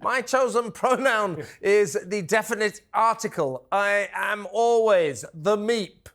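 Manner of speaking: lightly voiced alien creature; a hint of a silly alien. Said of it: "this is my, uh, alien voice".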